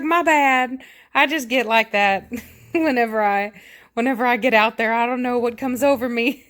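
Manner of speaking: apologetic cat voice. Retold or imitated. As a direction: voice the cat owning up, amused. Cat excusing herself to owners.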